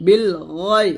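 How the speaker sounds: "গয়" with a thick throaty gh; heavy ghain. Shown as a demonstration. Teacher showing the thick letter, heavy gh in "গয়". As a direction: make the gh of "গয়" full and heavy. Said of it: "গয়েনটা আমরা মোটা করব".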